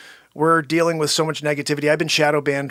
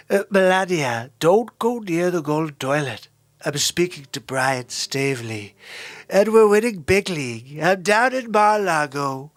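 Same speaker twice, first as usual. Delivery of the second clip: Trump impression. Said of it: "pretty good Donald Trump impression".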